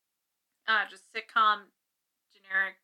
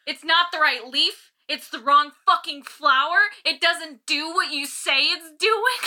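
retold angry rant; 4 semitones higher, 5 dB louder, slower than usual. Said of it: "it made me so mad".

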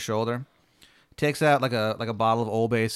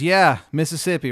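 put-on little girl; 4 semitones higher, 6 dB louder than usual. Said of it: "little girl".

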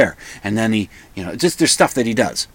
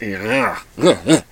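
cringing "ugh" sounds; disgusted groan; 4 semitones lower, slower than usual. Real, not acted. Podcaster recalling a cringe moment in a film, disgusted groans.

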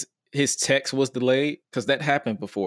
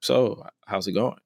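nonchalant; 3 semitones lower, slower than usual. Retold or imitated. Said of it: "I'm nonchalant as hell".

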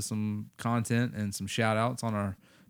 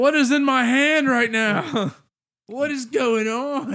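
mock bewildered; 13 semitones higher, 6 dB louder than usual. Mock existential crisis.

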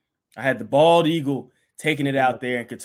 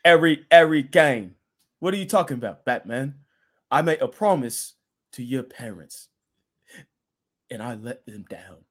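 an English butler voice, louder on the name, mourning at the end; Alfred English accent; 3 dB louder than usual. Retold or imitated. Host acts Alfred's line to Batman in an English accent. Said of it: "I'm Alfred from Dark Knight".

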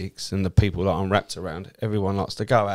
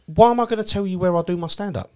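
higher, incredulous challenge; mock indignant; 10 semitones higher than usual. Comedian refusing to tell the stranger his gigs, indignant and higher. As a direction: throw the question back at him. Retold rebuff.

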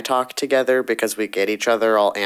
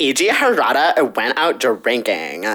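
put-on Valley Girl accent. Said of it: "Valley Girl accent".

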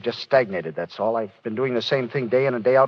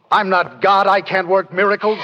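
louder and higher, cracking with despair; anguished outburst; 8 semitones higher, 4 dB louder than usual. Acted. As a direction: cry out against your own helplessness. Doctor breaks down after child dies.

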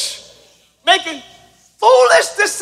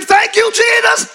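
loud; 4 semitones higher than usual. Shown as a demonstration.

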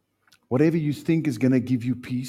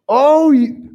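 loud and higher, building; rising exclamation; 13 semitones higher, 12 dB louder than usual. Real, not acted. Preacher reacts to a struggling person, loud exclamation. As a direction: burst out "oh, you".

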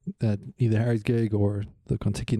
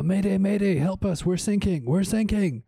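high, hammed-up mayday call; mock distress call; 8 semitones higher than usual. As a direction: play sinking sailors crying for help, pitched well up. British sailors call for help.

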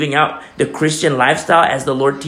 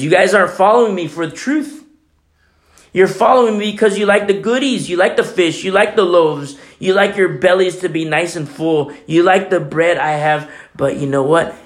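Jesus rebuking; 3 semitones higher than usual. Retold or imitated. Jesus voiced, louder, fast.

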